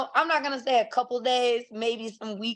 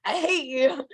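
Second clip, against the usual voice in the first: high-pitched mock heckling; angry fan rant; 5 semitones higher than usual. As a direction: curse the players out like a fed-up fan. Acted angry fan cursing players.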